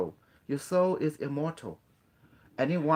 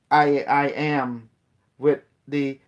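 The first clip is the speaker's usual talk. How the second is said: slow, louder mock mystic intoning; mock guru; 6 dB louder, slower than usual. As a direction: intone it like a parody sage. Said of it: "they always talk like that".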